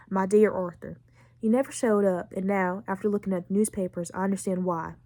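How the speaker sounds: subdued, tender read-aloud; letter reading. Acted. Reading Mary's farewell letter to Arthur, subdued letter reading.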